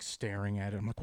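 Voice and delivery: ordinary delivery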